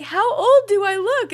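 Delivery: hammed-up offended disbelief; mock outrage. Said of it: "we have to be like".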